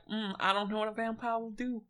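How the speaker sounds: softly mimicking someone's wary doubt; mock hesitant. The speaker mimics a friend wary of vampires, mock hesitant. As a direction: quote their hesitation back in a small, soft voice. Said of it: "and you're like".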